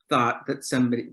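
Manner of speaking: ordinary talk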